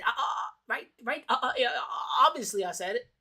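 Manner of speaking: a string of uhs before the admission; hammed-up hesitation; mock stammer. Streamer mocking the guest's panic, stalling stammer. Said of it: "that stutter".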